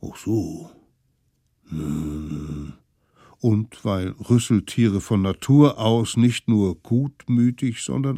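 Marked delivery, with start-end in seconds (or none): 0.0-2.7 softer, lower musing creature; a mild pondering mammoth; thoughtful mammoth. Acted. Mammoth considers.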